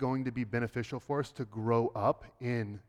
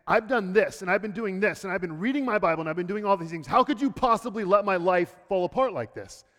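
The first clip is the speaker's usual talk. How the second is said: mildly acted protest, raised in pitch; indignant complaint; 4 semitones higher, 3 dB louder than usual. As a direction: plead your case to God, a touch indignant. Voicing an indignant complaint to God.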